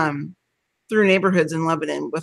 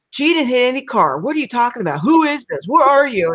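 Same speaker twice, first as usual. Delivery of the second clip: confused angry husband; 4 semitones higher than usual. Retold or imitated. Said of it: "he's like".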